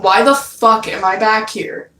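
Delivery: retold retort with a bit of attitude. Dreamer answering back to his captor, with a bit of attitude. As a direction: put a little sass into the complaint. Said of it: "having a little bit of a-, attitude in my fucking voice".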